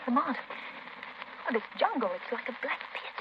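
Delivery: hushed, slow, scared whisper; frightened whisper. Acted. Wife-like companion whispering fearfully to Lamont in the dark jungle. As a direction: she whispers her fear of the black jungle.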